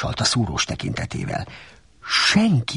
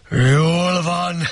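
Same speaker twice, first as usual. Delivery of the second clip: louder, defeated bellow; booming; 5 semitones higher, 4 dB louder than usual. A narrator's reading. Defeated Shrek gives in to Donkey, bellowing. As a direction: bellow it, giving in.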